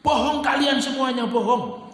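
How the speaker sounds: accusing the whole crowd of lying, indignant; angry denial. Acted. Townspeople deny the killing.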